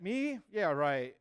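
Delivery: high-pitched, disbelieving retold reaction; incredulous. Youth told a girl likes him, incredulous. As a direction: jump up high on the question, then scoff. Acting own disbelief at being liked.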